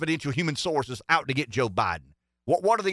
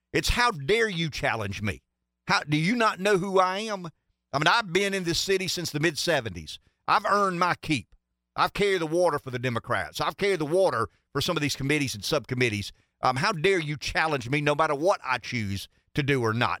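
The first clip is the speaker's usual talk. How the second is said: ordinary talk, nothing marked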